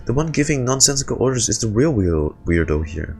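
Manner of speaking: chirpy high little companion; bright squeaky fairy sidekick; high Paimon voice. Acted.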